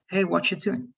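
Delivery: "what you doing" said as "whatcha doing"; casual "whatcha" in place of "what you"; most contracted. Shown as a demonstration. Teacher giving an example greeting, contracted. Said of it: "That's the most contracted way".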